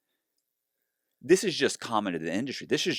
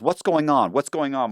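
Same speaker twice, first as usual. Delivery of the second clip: lightly voiced, higher-pitched bewilderment; mock confusion, repeated in a higher voice; bewildered attorney; 5 semitones higher than usual. Retold U S attorney confused by the case, bewildered. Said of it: "the U S attorney goes".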